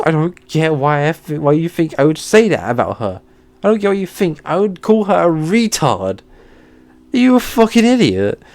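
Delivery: high, exasperated outrage; angry rant. Real, not acted. Ranting at the accusing teacher, exasperated and high. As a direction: demand an answer, furious.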